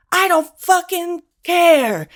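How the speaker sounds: high, loud, slow outburst; retold angry yelling. Driver snapping back at the cancer patient, slow imitated yell. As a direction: yell back, leaning slowly on every word. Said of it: "he started yelling at me like".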